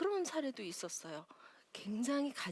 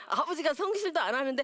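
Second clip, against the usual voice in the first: laughing aside; 5 semitones higher, 8 dB louder than usual. Real, not acted. Laughing aside about the father.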